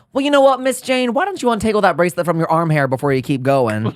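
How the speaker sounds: high mocking read; a sharp sassy drag read; recreated read. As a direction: deliver the dig with a sassy lift. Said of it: "That was everything, girl".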